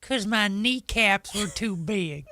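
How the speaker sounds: slow, lightly voiced old lady. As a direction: drawl slowly like a grandma. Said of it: "in that accent".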